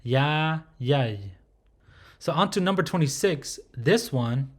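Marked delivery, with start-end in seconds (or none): 0.0-1.2 "ya" held, "y" closing the syllable; open then closed. Shown as a demonstration. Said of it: "how you'll pronounce the closed phonetic for ya".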